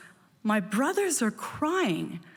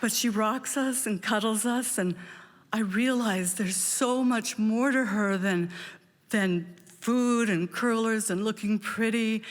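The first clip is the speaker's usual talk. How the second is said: usual speaking voice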